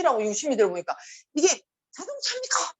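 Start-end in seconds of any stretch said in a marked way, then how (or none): 1.3-2.7 a presenter's teasing quiz question, pitched very high; playful mock quiz to the audience; quizzing presenter. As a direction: quiz the crowd, leading them on. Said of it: "막 이러더라고".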